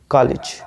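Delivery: "कॉलेज" as "kaa-lij"; short i after the l in "कॉलेज"; short-i COLLEGE. Shown as a demonstration. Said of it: "का और ल पे छोटी की मात्रा". ("कॉलेज" में ल पर छोटी इ)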